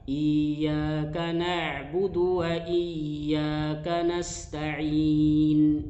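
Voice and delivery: overstretch iyyaka, loose and slow; overdone reading. Shown as a demonstration. Teacher showing students an exaggerated wrong iyyaka. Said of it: "itu juga salah".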